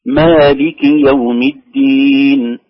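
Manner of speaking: slow recitation, "مالك" with an unexaggerated long a; natural madd. Shown as a demonstration. Teacher modelling the verse, natural-length a in "مالك". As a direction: recite "مالك يوم الدين" measured, drawing out the last word. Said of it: "هي مد طبيعي".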